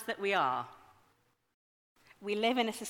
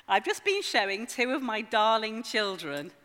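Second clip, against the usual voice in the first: lightly sarcastic, emphatic reading; mild sarcasm; 5 dB louder than usual. Acted. Preacher quoting friend's post about his children, mildly sarcastic. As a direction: read it out with a touch of mock fondness. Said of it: "hear the sarcasm in this".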